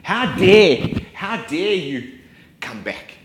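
acted father's anger. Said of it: "And a great anger".

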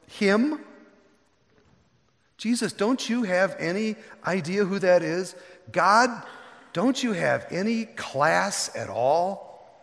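mock the outraged crowd, slow on the sneer; the crowd grumbling at Jesus, indignant.

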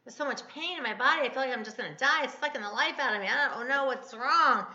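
mock woeful lament, rising and falling; hammed-up bellyaching about pain; retold moaning. Wife complaining to Bill about her pain, imitated woe. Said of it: "I would just be like".

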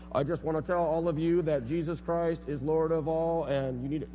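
mock the pushy office preacher; mock dork evangelist. Mocking bullhorn evangelist.

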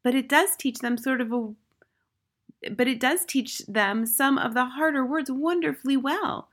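meek, lightly voiced teacher; Miss Honey murmur. A narrator's reading. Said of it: "Miss Honey murmured".

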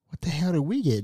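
hushed but voiced aside, retold; softly mouthed aside. Retelling words mouthed to a sister, soft voiced aside. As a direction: say it under the breath, with some voice.

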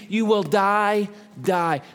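DIE stretched out, then repeated with a falling finish; slow, weighty warning on DIE, DIE; very emphatic. Acted. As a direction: hold the first DIE, drop the second. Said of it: "Very emphatic".

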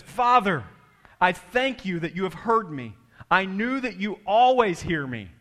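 declaimed prayer, loud opening call; showy public prayer. Acted. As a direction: project the prayer for onlookers to hear. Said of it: "he made a big show of it".

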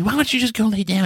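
a lightly imitated, exasperated wife; mock annoyed wife. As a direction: imitate his irritated wife. She gets mad at me.

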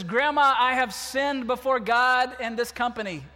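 loud, desperate confession; guilty boy bursting out to his grandmother; anguished cry. Retold or imitated. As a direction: blurt it out, finally breaking.

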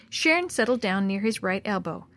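usual speaking voice

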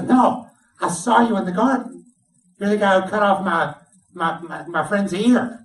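loud, high-pitched accusation; a relative shouting his charge across the fire; accusing shout. Acted. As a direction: call him out in front of everyone.

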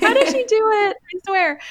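high-pitched, exaggerated marveling; mock amazement. Mom admiring her patient friend, playfully amazed.

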